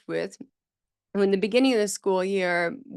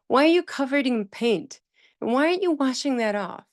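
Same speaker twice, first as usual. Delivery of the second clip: put-on higher-pitched, reproachful child's questioning; imitated child's intonation; 6 semitones higher, faster than usual. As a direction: mimic a child taking the teacher to task. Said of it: "With the intonation".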